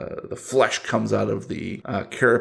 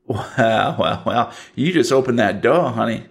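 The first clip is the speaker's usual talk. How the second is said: put-on Southern Cajun accent. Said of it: "Southern one minute and Cajun the next".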